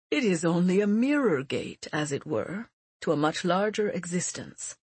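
put-on a grave old teacher; old mentor voice. Mentor speaking.

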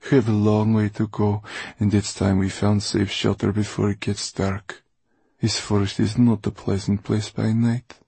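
lightly voiced commanding old schemer; a touch of authority, urging him on; domineering Mortola.

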